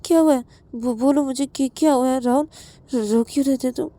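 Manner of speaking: anxious acted questioning; worried questioning. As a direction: press a friend gently for answers. Worried questioning of a tearful friend.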